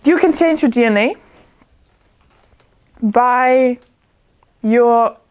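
halting, with long pauses near the end. Real, not acted. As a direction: repeat it piece by piece, searching for the words. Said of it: "Can you say it again a bit slowly".

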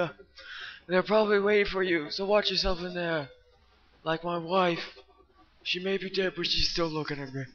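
lightly voiced grumpy old man; a hint of a creaky old geezer reading lines. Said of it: "I'm gonna try to do an old man voice".

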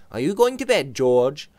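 Robert's voice. Acted. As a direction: ask with concern.

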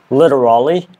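American-English "Literally"; American accent. Shown as a demonstration. Learner comparing the two accents, American accent. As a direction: say "Literally" the American way, all syllables. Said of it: "in American English".

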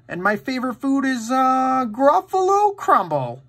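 high-pitched little mouse voice, drawing out the dish's name; high, slowing storybook mouse. A narrator's reading. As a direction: pitch it up high and stretch out the last words.

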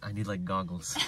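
laughing through words. Real, not acted. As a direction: say it while chuckling. Joking about sand in eye.

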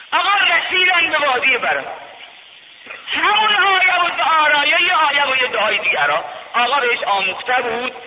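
high, loud preacher's cry; impassioned pulpit chant; full-force preaching. Acted. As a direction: lift the story into a sermon cry.

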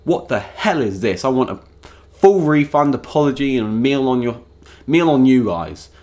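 mildly hammed-up indignant diner; mock outrage. Diner served burnt dog demanding refund, mock outrage. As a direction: make an acted complaint, punching the demands. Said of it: "everyone would be like".

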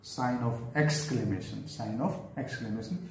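slow teacher drill; slow dictation. Shown as a demonstration. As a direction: sign of exclamation said slowly, word by word. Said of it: "teacher dictating term".

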